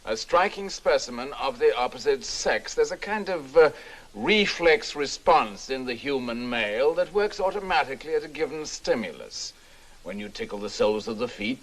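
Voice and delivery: emphatic public address, with lively rises; seminar lecture. Acted. Professor addressing gentlemen at a seminar, in an emphatic lecturing manner. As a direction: deliver it as a speech to a room.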